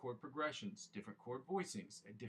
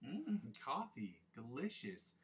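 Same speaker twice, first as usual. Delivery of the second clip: savoring; 4 semitones higher, much slower than usual. Real, not acted. Savoring first sip of coffee.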